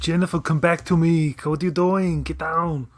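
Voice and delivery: high, loud mock desperation; hammed-up pleading shout. Friends goofing on the show, loud mock pleading. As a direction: beg her back like a bad action hero.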